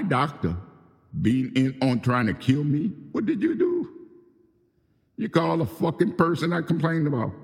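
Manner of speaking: high, loud furious tirade building to a defiant yell; furious rant before he signs off to go after them; angry outburst. Real, not acted. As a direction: let the anger boil over and shout it. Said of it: "forgive that little brief moment of excitement".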